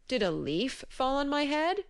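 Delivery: a lightly voiced dozy giant; drowsy giant voice. A narrator's reading. Sleepy giant wonders aloud.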